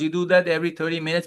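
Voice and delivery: ordinary talk, nothing marked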